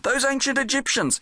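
calling out above the rumbling; shouting over noise. Acted. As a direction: shout up to the parrot across the shaking tomb. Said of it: "he shouted to Doris".

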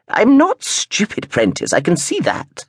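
put-on a tart old grandmother setting him straight; Gran's voice. A narrator's reading.

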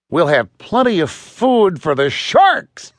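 mock-menacing sailor's jibe; taunting sailor. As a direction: draw out the threat with relish. Sailor gleefully taunts the Puritans.

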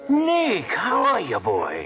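glad surprise. Acted. Pop recognizes old friend.

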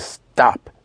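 short, commanding STOP pushed sharply down; "Stop" as one staccato downward jab. Shown as a demonstration. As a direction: snap out "Stop" as an order. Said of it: "with a commanding black finger and says".

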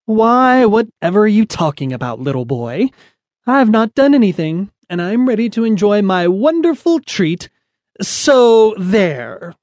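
high, snooty and prim, rising sneer; haughty cat. Acted. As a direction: talk down to him like a spoiled queen. Spoiled cat sneers at Smitty.

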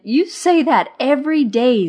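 high, loud, teasing lilt; amused. A narrator's reading. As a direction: tease a gloomy friend merrily. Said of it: "Laughing, Marva said".

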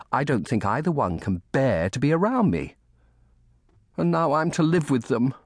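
put-on high-pitched boy voice, complaining; aggrieved orphan boy. A narrator's reading. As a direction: pour out a child's grievance. Orphan boy complains about relatives.

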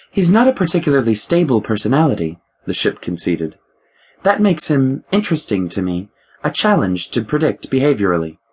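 ship AI voice. Acted. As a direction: play the ship's mind, a touch superior. The ship AI speaks.

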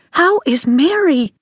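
high, slow, commanding question; imperious interruption. A narrator's reading. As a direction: cut in imperiously. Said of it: "Catherine interrupted imperiously".

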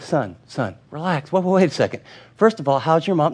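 soft, calm, fatherly; calm dad. Retold or imitated. Dad calming his frantic son on the phone, softly. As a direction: settle the boy down gently. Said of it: "his dad very calmly said".

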